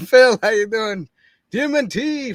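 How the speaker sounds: laughing through the words; giggling while speaking. Real, not acted. Laughing at fast comments.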